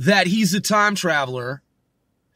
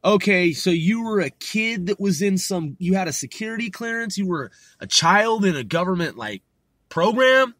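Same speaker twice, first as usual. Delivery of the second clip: imitating a condescending skeptic, ending on a raised question; mildly mock his story, incredulous; scoffing, mocking. Woman doubting a kid's security clearance, imitated scoffing. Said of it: "scoffing and mocking".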